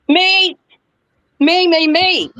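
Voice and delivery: put-on eager kid. Kid volunteering for Mary Poppins.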